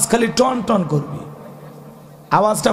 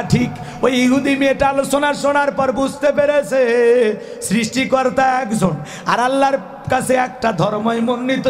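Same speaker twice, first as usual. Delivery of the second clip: preaching at full force; 2 semitones higher than usual. Acted. Raised preaching to crowd.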